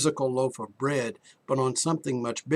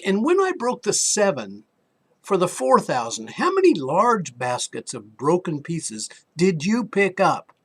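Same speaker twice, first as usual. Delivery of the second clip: pressing question; 4 semitones higher, 5 dB louder than usual. Retold or imitated. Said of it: "Jesus came back".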